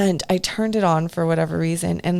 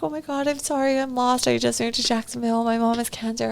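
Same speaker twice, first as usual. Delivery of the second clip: retold crying; 7 semitones higher, faster than usual.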